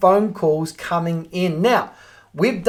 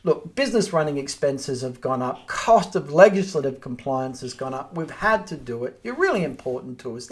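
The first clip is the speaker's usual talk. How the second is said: cool, calm, professional; 2 semitones lower than usual. Shown as a demonstration. Agent answering an angry owner, calm and professional. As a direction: soothe an upset landlord without giving ground. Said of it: "Just be cool, calm, professional".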